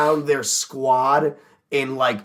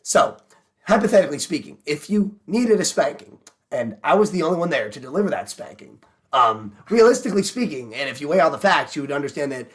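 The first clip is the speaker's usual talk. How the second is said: imitating Ben Shapiro deepfake. Friend mocks Ben Shapiro's deepfake video, fast smug pundit voice. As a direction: rattle off the logic like a smug debater. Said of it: "deep faked his voice".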